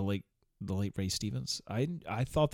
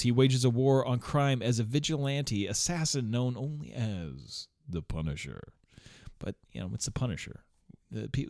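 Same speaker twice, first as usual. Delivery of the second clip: reading synopsis; 3 semitones higher than usual. Acted. Reading the film's synopsis to viewers, mild announcer read. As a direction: read the film blurb like a trailer, mildly.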